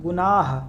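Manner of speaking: गुनाह said slowly with the final ह clearly breathed out; गुनाह ending on an audible ह. Shown as a demonstration. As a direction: let the ह at the end of गुनाह sound clearly. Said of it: "जिसमें हे एकदम clear हो".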